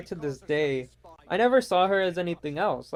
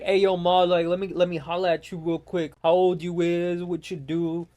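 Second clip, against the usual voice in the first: mocking impression of a would-be tough guy; mimicked slangy flirt. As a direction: hit on her in put-on street slang. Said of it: "when they sound like that".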